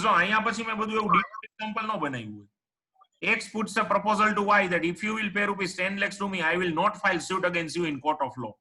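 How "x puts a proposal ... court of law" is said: slow, word by word, as if for notes; slow dictation. Shown as a demonstration. Teacher reading a legal definition to the online class, slowly. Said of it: "તો આને કહેવાય એબ્સ્ટિનન્સ".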